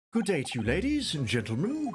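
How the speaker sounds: put-on posh English gentleman accent. Voicing a character in a game as an English gentleman: posh English gentleman voice. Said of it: "I have to make him English".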